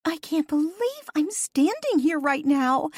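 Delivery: high, loud, excited call. A narrator's reading. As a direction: shout it over the music. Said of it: "Gina called out".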